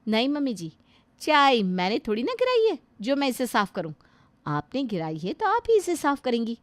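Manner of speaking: curt, defiant refusal; flat refusal. Acted. Daughter-in-law refusing to clean up the spilled tea, defiant. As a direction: throw the job back at her.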